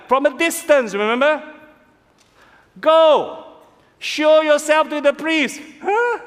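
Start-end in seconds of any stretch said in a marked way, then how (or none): 2.8-5.6 higher, louder firm command; a calm order from afar; lightly voiced Jesus. Jesus answers the lepers, lightly voiced command. 5.8-6.2 puzzled huh. Acted. Lepers puzzled.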